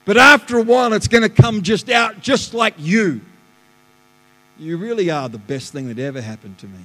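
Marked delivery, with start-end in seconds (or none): 4.6-6.8 tender compliment. Shown as a demonstration. Models a line for husbands.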